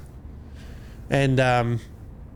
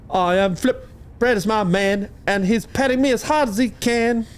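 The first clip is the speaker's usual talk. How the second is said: lightly voiced pet cat, a touch higher; a playful hint of the cat talking; 4 semitones higher than usual. Pet cat boasting to the listeners, lightly voiced.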